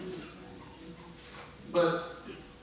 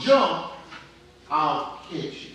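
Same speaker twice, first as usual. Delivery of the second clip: short raised call on Jump, then settling; retold yell; slower than usual. Preacher voices a dad calling to his son on the roof, mild retold yell. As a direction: mildly imitate a father calling out. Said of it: "his dad yells to him".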